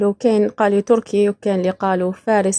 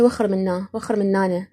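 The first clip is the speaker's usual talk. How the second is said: soft Iraqi shoo-away, وخر منانا; Iraqi pronunciation; 3 semitones lower, 5 dB quieter than usual. Shown as a demonstration. Speaker demonstrating Iraqi dialect to Algerian viewers, soft Iraqi "وخر منانا". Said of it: "احنا نقول بالعراقي".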